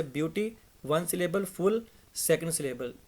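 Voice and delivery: ब्यूटी and फुल set apart as separate units; syllables counted separately. Shown as a demonstration. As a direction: pause after ब्यूटी's count, then give फुल on its own. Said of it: "ये आपका एक syllable हो गया".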